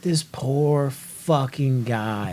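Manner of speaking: quiet, very slow, full of pity; pitying sigh. Retold or imitated. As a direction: drag it out softly, feeling sorry for him. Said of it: "I'm like".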